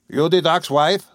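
lightly voiced suspicious old farmer; gruff old farmer. A narrator's reading. Old farmer questioning the doctor's wife, gruff.

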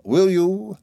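high, pointed question; taunting challenge. A narrator's reading. Micawber dares Heap to ask, tauntingly. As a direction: toss it out high as a dare.

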